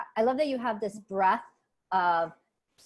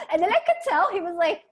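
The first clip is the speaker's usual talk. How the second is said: words carried on a laugh, higher; laughing while talking; 7 semitones higher, 5 dB louder than usual. Real, not acted. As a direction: keep laughing through the line. Still laughing while telling.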